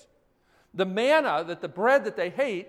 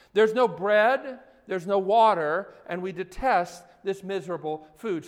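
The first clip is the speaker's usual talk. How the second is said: complaining; 6 dB louder than usual. Acted.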